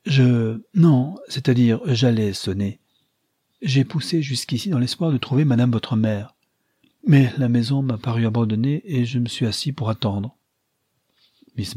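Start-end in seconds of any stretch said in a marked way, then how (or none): 0.1-10.4 halting, embarrassed excuses, a bit higher; flustered stammer. Acted. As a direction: caught out and fumbling for words. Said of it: "La confusion d'Archer".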